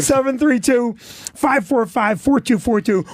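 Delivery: slow, measured phone number. Real, not acted. Comic repeats the club's number for listeners, slowly. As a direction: read out the digits slowly, with pauses between groups. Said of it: "Say it again, slow".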